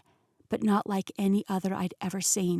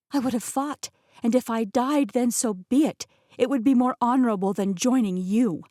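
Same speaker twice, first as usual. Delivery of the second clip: higher, louder proud declaration; defiant outburst; 4 semitones higher, 5 dB louder than usual. Acted. Heroine defying Rasputin, loud and proud. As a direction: fling it at him with honor.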